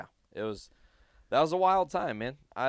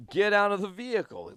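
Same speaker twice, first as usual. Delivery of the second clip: raised, higher-pitched police command; mock cop order; 8 semitones higher, 6 dB louder, faster than usual. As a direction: act out a cop ordering people out. Acting out cop ordering teens out.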